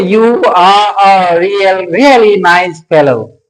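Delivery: "are" said in its full form, drawn out; slow read-out giving "are" full weight; over-full strong form. Shown as a demonstration. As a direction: show the mistake: a long, unreduced "are". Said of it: "don't say".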